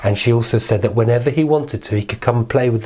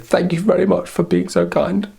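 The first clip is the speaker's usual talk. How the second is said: queen's thanks; 7 semitones higher than usual. Acted. Queen thanking little man.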